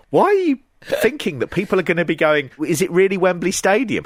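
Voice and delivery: mock over-the-top promo pitch; hyped-up advert pitch. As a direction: push the show like a pushy ad. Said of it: "and I go".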